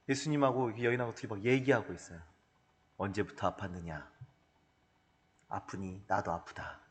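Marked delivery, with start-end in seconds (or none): 3.0-6.8 much softer, lower tender voice; gently, like comforting a sick woman; tender Jesus. Retold or imitated. Jesus tenderly asking the woman about her illness, soft. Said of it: "막 이러시면서".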